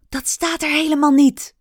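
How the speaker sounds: desperate cry. Acted. Rikki pleads desperately, stressing "niet" loud. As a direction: push "niet" out in despair. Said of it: "riep Rikki wanhopig".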